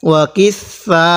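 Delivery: slow madd demo; four-count madd. Shown as a demonstration. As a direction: hold the vowel of ওয়া কিসা long, four beats. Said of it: "চার আলিফ টান দিব".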